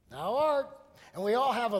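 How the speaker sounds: "Thou art." called out high and loud; preaching shout. Real, not acted. Preacher crying out to the congregation, loud. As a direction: proclaim "Thou art." at full force.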